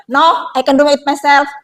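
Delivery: a curt, slow refusal, pushing the helper away; harsh cynical refusal. Shown as a demonstration. Student cynically rejecting a classmate's offer, curt and harsh. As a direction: turn down the help like they annoyed you. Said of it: "mode sinis ini".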